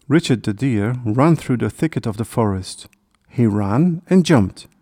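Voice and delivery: usual speaking voice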